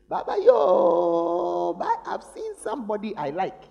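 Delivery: put-on a grown child breezily telling dad, slow and drawn out. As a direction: tease the parent like a grown child who found love. Child leaving parent, voiced.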